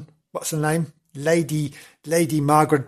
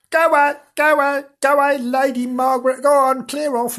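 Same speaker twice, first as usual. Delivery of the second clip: mildly raised, calling a ghost away; villagers shooing a ghost; 7 semitones higher than usual. Acted. Villagers to Lady Margaret, mock shooing. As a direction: shoo her off, half-playful.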